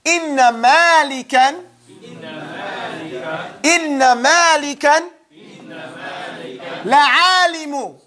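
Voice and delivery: rhythmic recitation; recited example. Shown as a demonstration. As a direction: chant it for memorizing. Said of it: "he's gonna give you an example to memorize".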